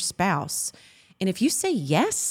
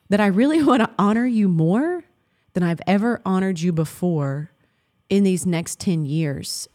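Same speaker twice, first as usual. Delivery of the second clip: emotional. Real, not acted. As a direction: say it again as feeling rises. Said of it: "I'm getting emotional".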